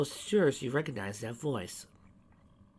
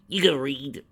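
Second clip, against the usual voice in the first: surprised; 5 semitones higher, 9 dB louder, slower than usual. A narrator's reading. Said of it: "Rainbow Dash thought out loud".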